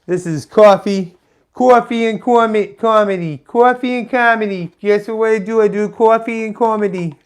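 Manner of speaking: mock announcer hype; host impression. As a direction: sell it like a morning show host. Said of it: "That's my brilliant impression of somebody".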